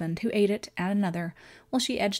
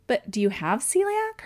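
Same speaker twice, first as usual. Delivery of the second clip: higher, questioning, puzzled; genuinely baffled question; 7 semitones higher, 4 dB louder than usual. Acted.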